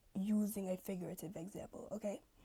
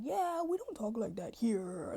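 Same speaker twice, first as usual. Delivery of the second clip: dismissive group; 2 semitones higher, 5 dB louder, slower than usual. Retold or imitated. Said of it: "they're just like".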